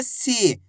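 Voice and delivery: "सी" with the ई held long; long drawn-out ī. Shown as a demonstration. Teacher repeating the answer for learners, "सी" drawn out. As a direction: stretch the vowel in "सी". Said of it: "बड़ी ई की मात्रा को खींच के पढ़ा जाता है".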